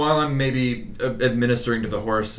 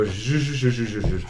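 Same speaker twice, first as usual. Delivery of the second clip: sweet soothing shushing. Acted. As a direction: gently hush a scared horse. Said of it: "very calmly, uncharacteristically sweetly go up to the horse".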